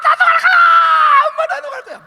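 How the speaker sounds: howling tantrum; child wailing. Acted. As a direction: wail it while lying on the ground.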